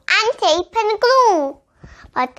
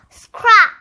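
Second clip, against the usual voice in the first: excited cry; 3 semitones higher, 4 dB louder than usual. A narrator's reading. Discovering the scrapyard.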